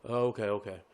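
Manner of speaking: lightly voiced dim kid, low and soft; slow-witted drive-thru kid. Kid on the speaker accepting the order, lightly slow-witted. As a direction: mumble it like a clueless order-taker. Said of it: "This kid sounds like a fucking".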